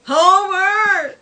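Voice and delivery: high, loud drawn-out call; neighbour's protesting shout. Acted. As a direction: yell the name over the fence. Flanders calls out to Homer.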